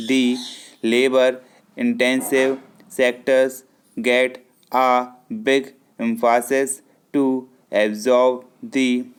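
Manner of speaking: ordinary talk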